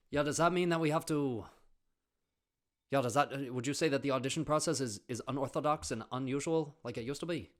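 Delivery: high, loud, overeager classmate voice; mock eager student. Mocking himself asking the teacher a keen question, high and loud. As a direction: ham up the keen know-it-all question.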